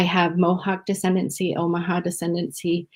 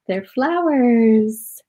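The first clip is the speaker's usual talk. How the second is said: fond echo; 5 semitones higher, 3 dB louder, much slower than usual. Real, not acted. Mother echoing her little girl for the audience, slow and fond. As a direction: repeat it slowly, proud of her. Repeating a child's words to viewers.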